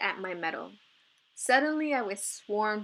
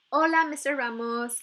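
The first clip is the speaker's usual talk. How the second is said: bright, louder forced cheer; cheerful greeting; 5 semitones higher, 6 dB louder than usual. A narrator's reading. Itza greeting the coach she must persuade, forced cheer. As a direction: greet him as cheerfully as you can manage. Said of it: "in the most cheerful voice I could muster".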